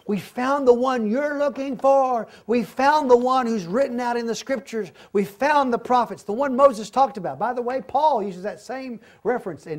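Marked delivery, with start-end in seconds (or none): 0.1-7.4 excited announcement. Acted. Philip eagerly telling Nathanael they found him, excited. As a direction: announce it like you can hardly believe it.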